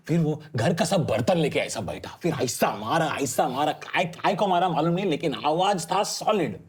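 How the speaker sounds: imitated South Indian storyteller describing a drummer; lively mock South Indian accent. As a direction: recount it like a comic South Indian eyewitness. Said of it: "South Indian man describing".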